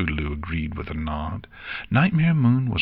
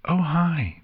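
filly greeting; 9 semitones higher than usual. A narrator's reading. Filly greets friends in story.

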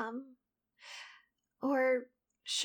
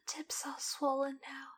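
whispering; 4 dB quieter than usual. Acted. Sensual whispered roleplay.

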